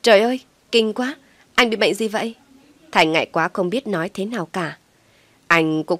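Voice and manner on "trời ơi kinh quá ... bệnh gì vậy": loud, high cry of disgust; shocked disgust. Acted. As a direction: recoil in horror at what she sees. Yến trố mắt ra nhìn.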